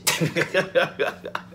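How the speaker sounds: a quick amused laugh at himself; short real laugh. Real, not acted. Laughing to viewers about his cheesy skit, amused chuckle. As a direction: laugh at the idea of your own bad acting.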